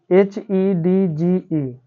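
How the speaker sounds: put-on drawn-out letter-by-letter spelling for children; slow spelling out. Shown as a demonstration. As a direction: spell each letter very slowly, one by one. Teacher spells word letter by letter. (बच्चों के लिए धीरे-धीरे अक्षर बोलना)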